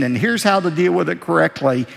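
ordinary talk

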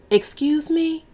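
high, sharp indignant challenge; 高声不满地反问; indignant excuse me. Acted. Mother challenges mouthy daughter.

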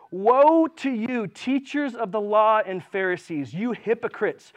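slow, loud proclaiming woe; drawn-out solemn rebuke; declaiming woe. Acted. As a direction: thunder it from the pulpit. Preacher reading Jesus' rebuke.

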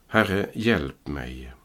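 slow, drawn-out "Herre, hjälp mig" as a mild read plea; cry for help. Acted. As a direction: stretch out "Herre, hjälp mig" slowly and deliberately. Peter cries out while sinking.

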